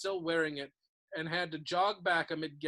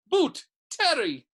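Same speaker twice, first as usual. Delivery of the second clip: calling out names; 9 semitones higher, 9 dB louder, slower than usual. A narrator's reading.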